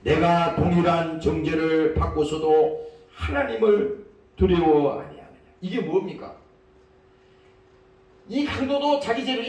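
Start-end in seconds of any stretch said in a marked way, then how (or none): 0.0-5.3 solemn reproach; scriptural rebuke. Acted. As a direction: rebuke with measured weight. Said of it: "그 사람을 꾸짖어 가로되".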